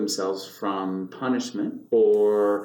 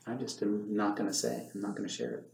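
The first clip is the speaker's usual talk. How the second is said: tag withheld; 3 semitones lower, 11 dB quieter, faster than usual. Acted. Voicing child hiding family trouble.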